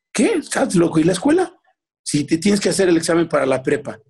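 high-pitched mock disbelief; aghast mother. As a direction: imitate a shocked mum objecting. Mother reacts aghast to son's news.

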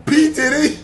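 giggling out the name; laughing. Real, not acted. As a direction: laugh through the words.

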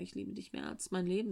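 soft quoted line. Retold or imitated. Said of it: "Ist auch eine Ansage".

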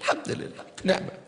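thankful murmur trailing into a whisper; grateful, fading to a whisper. Acted. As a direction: murmur gratitude, dropping to a breath. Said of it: "مشى وهو يقول".

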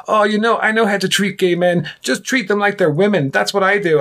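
high-pitched mock uncle giving advice; pitched well up, pleased with himself; know-it-all uncle. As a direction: imitate a well-meaning, clueless uncle. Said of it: "and he goes".

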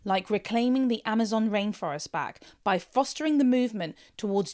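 polished sponsor read, steady and measured; host-read advert with stressed product names; podcast ad read. Acted. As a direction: sell it like a personal recommendation.

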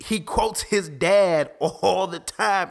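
slow, amused, with a laugh breaking through; amused laughing aside. Real, not acted. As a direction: chuckle through the words, taking your time. Laughing while describing Jesus.

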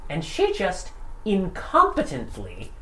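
building to a shout. A narrator's reading. GM building to outburst.

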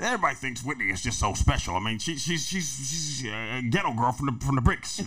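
fast, lightly voiced impression of Nip. Friend mimics Nip talking about Whitney, fast and lightly voiced.

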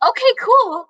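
high squeaky catchphrase; voice up octaves. Retold or imitated. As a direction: mimic a starstruck squeak, way up in pitch. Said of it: "my voice went up, like, five octaves".

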